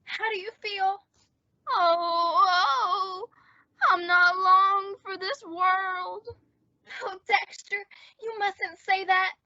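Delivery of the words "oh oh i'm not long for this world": hammed-up dying man, slow and sighing; milk it like you're on your deathbed; fake deathbed voice. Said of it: "pull this deathbed gag".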